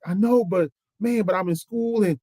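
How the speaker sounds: imitated panic. Young man tells mentor his girlfriend is pregnant, imitated rising panic. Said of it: "see the panic coming over his face".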